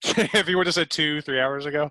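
laughing tease. Real, not acted. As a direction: giggle through the punchline. Teasing joke with laughter.

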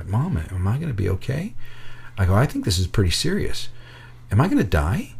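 small, soft, worried voice; a little freaked out. Retold or imitated. Injured boy asking his mother if he'll be okay, quietly scared. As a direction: ask softly, with a touch of fear. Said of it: "I start to get a little freaked out".

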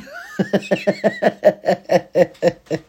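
high-pitched cackle of laughter. Real, not acted. Cracking up at his own joke, a high laugh.

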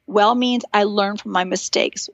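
「Well」をゆっくり強調; stress on well. Shown as a demonstration. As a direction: lean slowly into Well. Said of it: "I wanna emphasize that word well".

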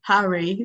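"Harry" said oddly with a questioning lift; odd joking pronunciation. Pretend. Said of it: "Why'd you say it like that?".

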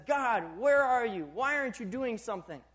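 Gideon's angry cry to God. Retold or imitated. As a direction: demand answers with heat. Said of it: "He's so angry".

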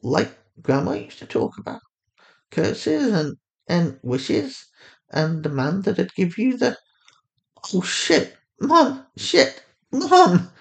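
spiral from disbelief into panic; panicking. A narrator's reading. A daughter panicking as she realizes the curse, building to a cry. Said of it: "her panicking daughter".

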